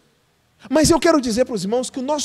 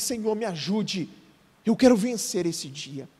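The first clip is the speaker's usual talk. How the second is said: softer, slow, humble plea; quiet prayer; 3 semitones lower, 5 dB quieter than usual. Shown as a demonstration. Pastor showing the congregation how to pray, softly. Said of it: "levanta os seus olhos e diz".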